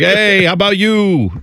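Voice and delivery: cartoon New Yorker firing back; mock New York accent. Host retorting to the accent-shamer, slow mock New York accent. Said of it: "people from New York".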